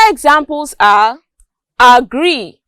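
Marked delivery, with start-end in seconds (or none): 1.8-2.6 "agree" stressed on GREE; second-syllable stress. Shown as a demonstration. Teacher showing word stress, "agree" weighted on gree. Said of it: "The stress falls on gree".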